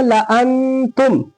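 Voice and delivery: "लाअंतुम" slowly, quick la and held nasal n; recitation model. Shown as a demonstration. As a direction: hold the n in "लाअंतुम". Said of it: "इसको क्या पढ़ेंगे?".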